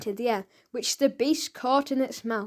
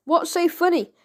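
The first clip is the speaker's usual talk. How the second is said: higher and louder, demanding; 6 semitones higher, 4 dB louder than usual. A narrator's reading. The boy demanding why they laugh, raised voice. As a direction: insist on an answer, raised. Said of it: "demanded the boy".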